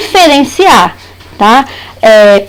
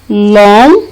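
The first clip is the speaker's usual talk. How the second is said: "lon" held on its own, swinging up from low; single out "lon" as one long beat; stressed syllable alone; 4 semitones lower than usual. Shown as a demonstration. Teacher isolating the last syllable of balão, stressed syllable alone. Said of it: "na sílaba tônica dessas palavras".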